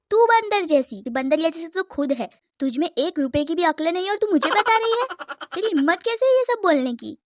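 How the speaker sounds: heated, fast rant at a rival; angry scolding. Acted. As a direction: tear into her for the insult. Heated quarrel in the canteen. (गुस्से में तेज़ फटकार)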